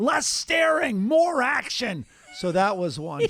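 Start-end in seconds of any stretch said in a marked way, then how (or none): 0.0-2.0 play-acted very high, sudden, drawn-out scream. Retelling what a soccer teammate screamed out of nowhere: imitating someone screaming. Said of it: "he'll just scream".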